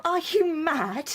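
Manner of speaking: gasp, then slow disbelief; shocked, crying out. Acted. Wife hears she is not married, gasping in shock.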